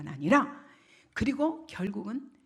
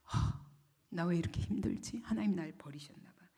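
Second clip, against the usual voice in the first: low, soft acted lament; discouraged believer; 3 semitones lower, 4 dB quieter than usual. Struggling believer fears God has abandoned them, mildly despondent. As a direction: sigh it out in mild self-pity.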